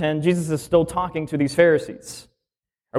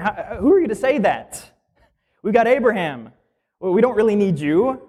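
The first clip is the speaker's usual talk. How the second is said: a lightly voiced indignant Pharisee, pitched higher; scoffing Pharisees; 4 semitones higher than usual. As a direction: scoff at Jesus as a proud Pharisee.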